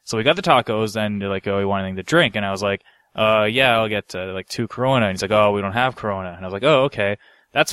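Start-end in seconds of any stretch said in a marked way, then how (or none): none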